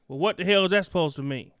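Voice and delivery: normal talking voice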